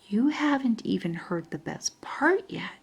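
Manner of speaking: soft secretive whisper. A narrator's reading. Grandpa whispering a secret over the phone. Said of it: "made his voice real quiet".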